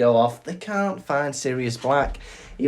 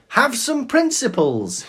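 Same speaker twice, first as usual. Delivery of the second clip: higher mock rant of the dealer's line; mock shouty dealer; 12 semitones higher, 3 dB louder than usual. Host retelling his favourite line from the story, mock rant. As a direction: ham up the drug dealer's line, pitched up. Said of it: "My favourite part of that was".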